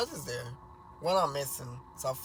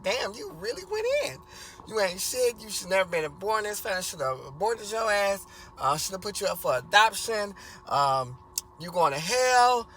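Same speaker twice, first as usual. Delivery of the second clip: higher, raised mother ranting at her son; mom going in; 4 semitones higher than usual. Retold or imitated. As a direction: pile the insults on, hotter and higher. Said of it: "She went in this time like".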